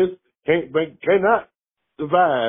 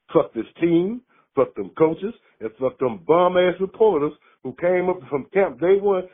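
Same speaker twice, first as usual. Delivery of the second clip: angry rant; 5 semitones higher than usual. Real, not acted. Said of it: "I love that rant".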